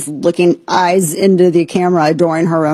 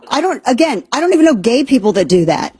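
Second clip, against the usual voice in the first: ordinary delivery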